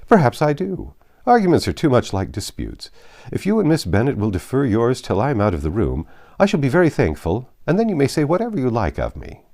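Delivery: a good-humoured host begging off the argument; Bingley's voice. A narrator's reading.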